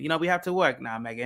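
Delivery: lightly imitated British prince; mild mock-British accent, reasoning with his wife; put-on British accent. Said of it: "I can do an accent".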